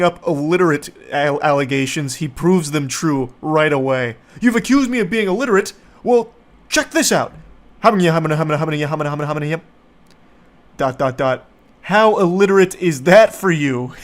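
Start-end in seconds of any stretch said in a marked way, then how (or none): 4.4-13.9 mocking coworker voice. Reading the angry coworker's text aloud, fast mocking sneer. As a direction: sneer out his text like a dumb boast.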